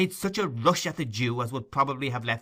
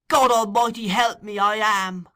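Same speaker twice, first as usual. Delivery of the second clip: much higher, loud anguished cry; passionate cry; 11 semitones higher, 9 dB louder than usual. Acted. Nancy crying out passionately against Fagin. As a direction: cry out to heaven. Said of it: "cried the girl passionately".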